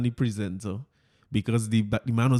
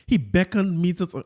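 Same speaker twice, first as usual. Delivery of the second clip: Fitz voice; 3 semitones higher than usual. Retold or imitated. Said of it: "let me get my Fitz voice here".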